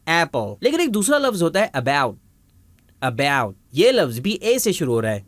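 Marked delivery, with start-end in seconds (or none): 0.1-0.5 ایپل opening on A as in cat; short A sound. Shown as a demonstration. Teacher models the A in apple, short and open. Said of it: "اے کی آواز نکال رہے ہیں".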